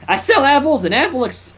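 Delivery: laughing loud mid-line; cracking up. Real, not acted. Narrator losing it while voicing Applejack. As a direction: break into a high shrieking laugh.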